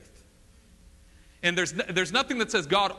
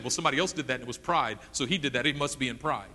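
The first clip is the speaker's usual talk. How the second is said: judgmental gossip; 6 semitones lower, 4 dB quieter, faster than usual. Retold or imitated. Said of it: "don't ever judge someone's actions".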